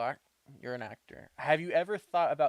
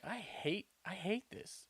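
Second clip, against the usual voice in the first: higher, hushed grumble to oneself; quoted inner complaint; 7 semitones higher, 8 dB quieter than usual. Retold or imitated. Recalling school acting, a quiet high-pitched complaint. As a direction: say it small and high, soft as a private thought. Retelling own dislike of acting.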